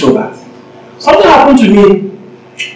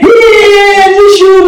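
eager gossip, much higher; 1 gossiping churchgoer; 11 semitones higher, much slower than usual. Retold or imitated. Preacher voicing someone bringing gossip, pitched much higher. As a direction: lean in to pass a rumour. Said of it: "somebody is coming and saying".

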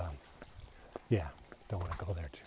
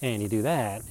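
mocking voice. Defenders objecting to the criticism, mildly mocking. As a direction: lightly parody a defensive believer, words stretched. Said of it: "yes, I have my mocking voice on".

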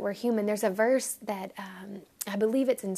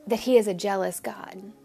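puzzled. Retold or imitated. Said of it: "I was a little kinda like".

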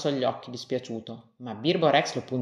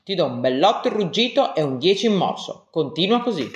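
louder, beaming teacher praise; delighted praise; 4 dB louder than usual. Acted. Teacher praises little Rex for roaring, a bit louder and delighted. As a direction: cheer the pupil on proudly. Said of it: "il maestro era tutto contento".

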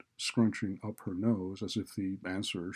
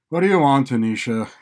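loud, higher-pitched impatient question; exasperated dean, voice raised; irritated demand; 6 semitones higher, 16 dB louder than usual. A narrator's reading. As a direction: demand it loudly of an unwelcome visitor. Irritated dean snaps at student.

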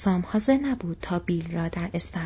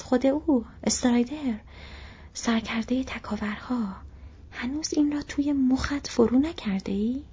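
pushing the point home; eager hobbit; 5 semitones higher than usual. Acted. Sam telling Butterbur who Strider is, eagerly. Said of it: "سام گفت".

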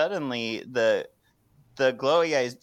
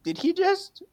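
tags=1. Retold or imitated. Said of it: "Paige just goes".

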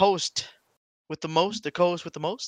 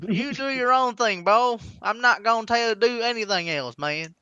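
put-on Florida Southern accent; 2 semitones higher than usual. Co-host playing a law bystander, Florida Southern accent. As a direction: lay on a Florida good-old-boy twang. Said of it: "ending this in Florida Southern".

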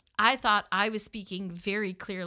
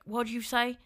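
Southern accent mimic. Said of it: "I don't know if I can mimic it".

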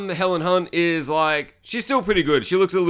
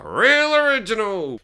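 slow, high drawn-out sarcasm; sarcastic; 7 semitones higher, 4 dB louder, slower than usual. Real, not acted. Reviewer mocking the angry teenager cliche, drawn-out sarcasm. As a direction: stretch it out in mock admiration.

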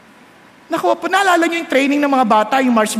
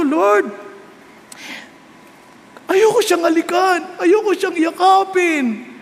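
pleading prayer; slower than usual. Retold or imitated. Retold prayer of resisting temptation.

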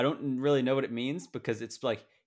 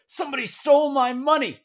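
high, loud mock mom voice, dead earnest; squeaky imitation of mom's blunder; imitating mom; 10 dB louder than usual. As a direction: play the mother proudly misspeaking. Mom voiced in retold story.

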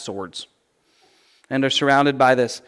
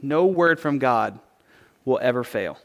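softer, slow, lower savoring of the verse; quiet reverent echo of the verse; soft reflective repeat; 5 semitones lower, 6 dB quieter than usual. Shown as a demonstration. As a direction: linger on it gently, letting it sink in. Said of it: "That's beautiful, right?".

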